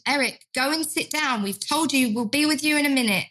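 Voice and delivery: mildly sharp order, fast at the end; a touch of impatient carer brushing him off; agitated, dismissive carer. Retold or imitated. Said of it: "carers to become a little bit agitated".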